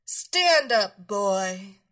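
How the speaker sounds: loud, sharp order; stern command. Acted. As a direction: bark it like a strict mistress. Mistress orders him up.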